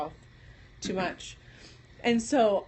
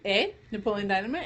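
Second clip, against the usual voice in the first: Michigan eh; 2 semitones lower, faster than usual. Shown as a demonstration.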